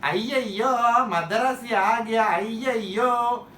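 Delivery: Bollywood comic South Indian caricature; south indian accent. Retold or imitated. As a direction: ham up a filmi Madrasi accent. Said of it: "Bollywood used to treat us like how?".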